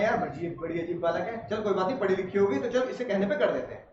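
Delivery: a hint of a puzzled dad giving in; imitating dad. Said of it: "पापा ने".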